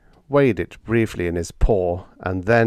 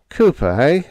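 groaning; 7 semitones higher, 6 dB louder than usual. Acted. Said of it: "I groaned".

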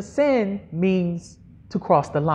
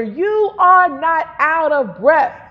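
exhorting declaration; 4 semitones higher, slower than usual. Shown as a demonstration. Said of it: "Now tell your neighbor".

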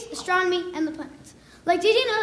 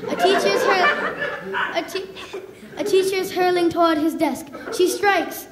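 British narrator. Pretend. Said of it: "What if my life had a British narrator?".

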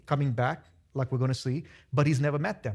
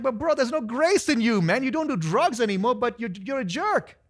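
blunt rebuke; 6 semitones higher than usual. Retold or imitated. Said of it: "I'm like".

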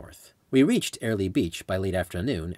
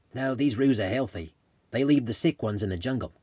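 put-on Australian accent; 3 semitones higher than usual. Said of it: "in his Australian accent".

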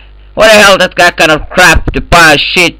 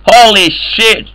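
drawn-out amazed exclaim; 5 semitones higher, slower than usual. Real, not acted. Gamer reacts in voice chat.

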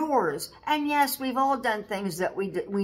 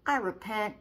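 repentant prayer; 2 semitones higher than usual. Shown as a demonstration. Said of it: "pick yourself up ... and say".

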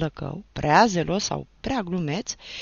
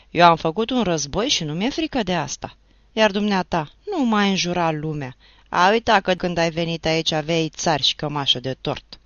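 louder, scolding the teacher; a villager telling off the teacher, louder; angry retort; 6 dB louder than usual. Acted. Neighbour scolds the teacher at the gate, louder and angry.

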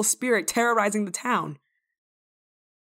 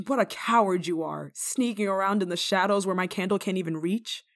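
usual speaking voice

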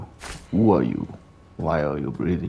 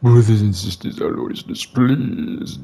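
mock preacher; 8 dB louder than usual. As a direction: preach it to the flock.

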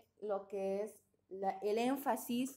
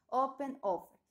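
"Open, offer" with the first O of each stressed; stress at the start. Shown as a demonstration. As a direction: lean on the opening syllable of "Open" and "offer". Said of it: "el estrés de la palabra está aquí al inicio".

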